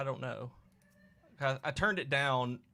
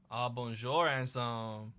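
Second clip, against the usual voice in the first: put-on French-accented flirty greeting; slower than usual. Voices French slime game character.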